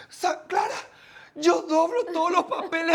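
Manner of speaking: imitating Sani. Sani protests to Clara about folding papers, high mock voice. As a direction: squeak it out like the oblivious anchor. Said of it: "Sani no se daba cuenta".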